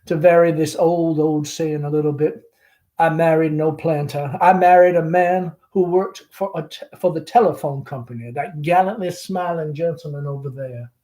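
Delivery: lightly voiced chatty Southern belle mother; Southern mother hostess. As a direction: gush over the guest like a fading belle. Amanda chatting with the caller.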